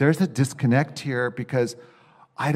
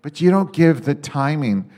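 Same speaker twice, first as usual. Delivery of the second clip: frustrated complaint; 3 semitones higher, 7 dB louder, faster than usual. Retold or imitated. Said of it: "is frustrating".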